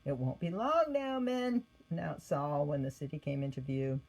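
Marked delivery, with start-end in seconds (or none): 0.0-1.7 raised, rallying call to men; commanding leader. Acted. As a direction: announce it like a leader. Saul addresses his men.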